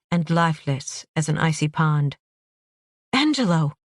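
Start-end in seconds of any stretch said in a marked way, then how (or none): 3.1-3.7 alarmed cry. Acted. Friend realizes he's dead.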